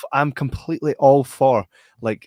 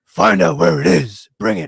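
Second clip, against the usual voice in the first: raised, slowed impression of a film character; imitating character's early voice; 3 semitones higher, 4 dB louder than usual. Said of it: "at the start, he's very much like".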